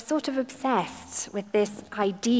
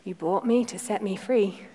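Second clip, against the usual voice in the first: tearful. Acted. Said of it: "tears streaming down her face".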